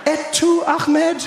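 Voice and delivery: betrayed disbelief at a fellow outsider; incredulous. Retold or imitated. Comedian to the Pakistani passenger, high incredulous cry. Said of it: "I was like".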